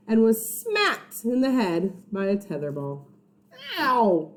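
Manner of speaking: put-on lively read-aloud for kids; story reading. A narrator's reading. Reads story to children.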